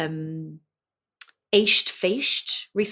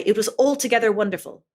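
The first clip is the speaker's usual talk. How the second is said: quick demo line; 4 semitones higher, 3 dB louder, faster than usual. Shown as a demonstration. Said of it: "You might say".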